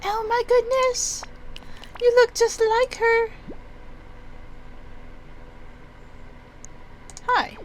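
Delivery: very high, slow, thin-voiced old woman gasping with joy; overjoyed old lady. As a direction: squeal it out like a grandma stunned to see a lost face. Excited old woman character.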